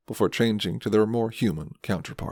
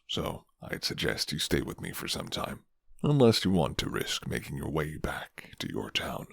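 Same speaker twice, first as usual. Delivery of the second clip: a hint of a guarded werewolf offering shelter; gruff werewolf man; 5 semitones lower than usual. Rough werewolf man speaks to listener.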